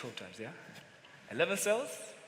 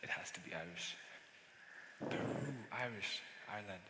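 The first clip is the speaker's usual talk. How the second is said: whispered, much softer, thinking aloud; muttered to himself; 14 semitones lower, 20 dB quieter than usual. Acted. Salesman muttering to himself over the name, whispering. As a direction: mumble it under your breath as you puzzle.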